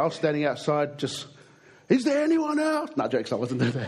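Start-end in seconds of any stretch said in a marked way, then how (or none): 1.9-2.9 mock challenge. Mock tough calling out outside.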